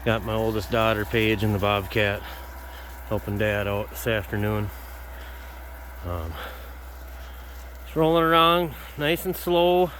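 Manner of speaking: breathless while working; out of breath. Real, not acted. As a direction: talk between short breaths. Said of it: "sorry, I'm kinda out of breath".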